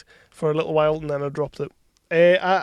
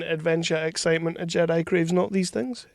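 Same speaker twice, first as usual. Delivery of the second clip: 1 flat Yoda quote; 6 dB quieter than usual. Retold or imitated. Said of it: "I'd deliver a bit more passion than that".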